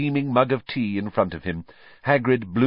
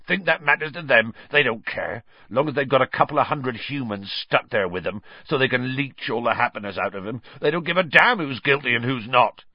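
a hint of Hagrid, scornful and hard; bitter Hagrid; 5 semitones higher than usual. Hagrid scorns the Dementors to Hermione, mildly bitter. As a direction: spit out the injustice.

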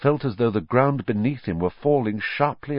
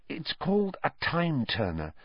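whisper; 5 semitones higher, 7 dB quieter than usual. A narrator's reading. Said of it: "Hermione whispered".

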